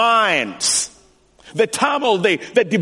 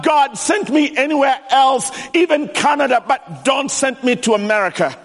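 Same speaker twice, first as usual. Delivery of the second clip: higher, urgent plea to God; pleading prayer; 6 semitones higher than usual. Retold or imitated. Preacher retelling his prayer to God, a pleading plea. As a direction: beg God not to send you. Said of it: "I told God".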